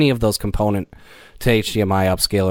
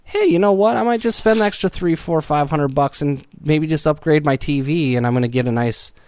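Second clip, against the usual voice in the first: high imagined voice; 5 semitones higher than usual. Retold or imitated. Imagined self-talk, upgrading TV.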